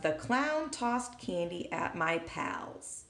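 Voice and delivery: reading the sentence slowly and clearly. Shown as a demonstration. Teacher to students, slow clear reading. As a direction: read it out slowly. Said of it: "So we have".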